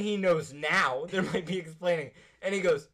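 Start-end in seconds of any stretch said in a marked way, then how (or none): none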